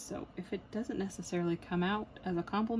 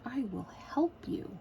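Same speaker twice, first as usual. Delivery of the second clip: a higher, lightly voiced beckoning; beckoning craft; 5 semitones higher than usual. Craft calls to an anxious person, beckoning. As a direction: call out invitingly as the craft. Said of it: "of diamond painting calls to you".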